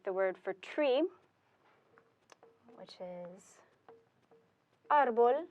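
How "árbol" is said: árbol with the stress on ÁR; exceptional first-syllable stress. Shown as a demonstration. Teacher giving an exception, the word for tree, árbol stressed on ÁR. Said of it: "if you have an exception".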